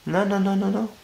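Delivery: ordinary talk, nothing marked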